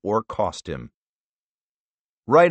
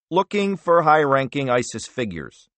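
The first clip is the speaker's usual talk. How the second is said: careful; 5 semitones higher than usual. Acted. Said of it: "chose his words carefully".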